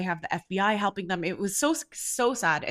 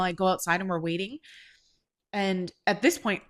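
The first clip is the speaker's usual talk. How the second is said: ordinary delivery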